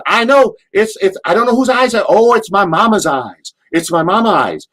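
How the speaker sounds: high, loud Southern panic; Cornette impression. Cornette mooned during his promo, high panicked Southern voice. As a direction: shriek it like Cornette mid-promo. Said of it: "he goes".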